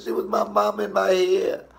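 high, whiny tearful protest; whiny grief. Retold or imitated. A mild tearful whine explaining his grief to mama. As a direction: plead like a hurt child. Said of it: "I was like".

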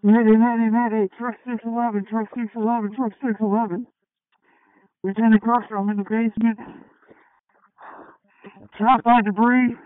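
loud, pressing radio distress call; loud acted mayday on the radio; urgent mayday call. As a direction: call the mayday over the radio like you're trapped.

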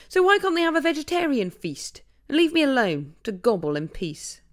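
a lightly voiced anxious turkey; fearful turkey. Turkey butting in about Christmas dinner, lightly voiced and anxious. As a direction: plead to be left alone.

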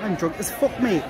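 badly faked Newcastle accent; attempted Newcastle accent. Vlogger imitating a passing bloke from Newcastle, poor Newcastle accent. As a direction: have a failed go at a Newcastle accent. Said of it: "I can't do that accent".

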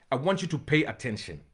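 preacher lowering his voice to hush the church. Shown as a demonstration. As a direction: drop the volume to draw them in.

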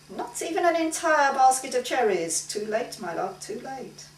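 cruelly tender refusal; gloating painter voice. Acted. Franz refusing Maggie.

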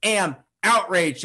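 indignant, each word drawn out; prophetic outrage. Acted. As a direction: proclaim it like an angry prophet. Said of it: "It's the anger, the outrage of the prophet".

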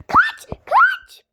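shrieking very high and loud; panicked scream. Pretend. Kid screaming at friends to flee, panicked. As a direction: scream for everyone to run. Fleeing the witch.

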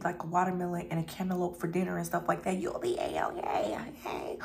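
fast unvoiced whisper. Real, not acted. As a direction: rush it as a whisper. Aside advice dropped to whisper.

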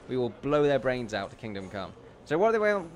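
normal talking voice

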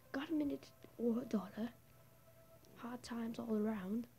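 lightly voiced Australian homeless man; a hint of Australian in a beggar's plea; Australian accent. Homeless man begging passers-by, light Australian accent. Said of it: "I'm giving him an Australian accent".

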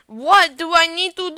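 loud, high cry of frustration; exasperated high holler; frustrated wail. Real, not acted. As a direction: wail it out, drawing out the last word. Frustrated wail at failing rocket.

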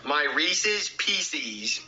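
"Reese's Pieces" drawn out very slowly with "ee" sounds, "peesees"; mispronounced candy name. Acted. Kid repeats the candy name for dad, mispronounced slowly. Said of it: "stop changing the name of it".

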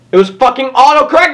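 furious outburst. Real, not acted. Streamer raging at autocorrect live, furious fast shout. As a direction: explode at the machine. Realizes autocorrect changed his typing.

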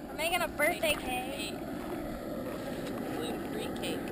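whisper. Real, not acted. Hiding the cake surprise.

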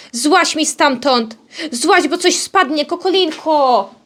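slow, drawn-out order to a pet; coaxing scolding. Real, not acted. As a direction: stretch the words, urging a pet down. Orders hen down from high place.

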